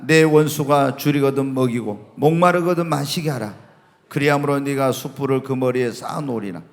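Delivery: low, steady verse recitation; scripture reading. Acted. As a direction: read it out firmly as Bible text. Reads Bible verses aloud to congregation.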